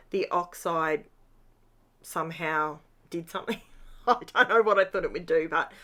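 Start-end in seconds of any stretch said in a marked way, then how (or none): 4.1-5.5 laughing. Real, not acted. Laughs at own idea.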